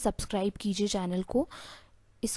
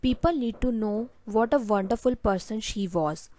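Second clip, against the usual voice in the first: slow model sentence; much slower than usual. Shown as a demonstration. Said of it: "आपको थोड़ा सा pause देना चाहिए".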